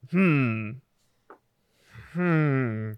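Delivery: exaggerated pondering hum; overdone thinking noise, stagey; hammy stage actor. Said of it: "Like, I'm hamming it up".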